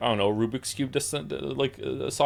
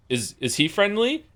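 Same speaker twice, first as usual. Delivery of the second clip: slow, high-pitched imitation of a dog owner; imitated questioning owner; 9 semitones higher, slower than usual. Owner nodding toward his dog, high slow mock question. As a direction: ask it slowly in a put-on high voice.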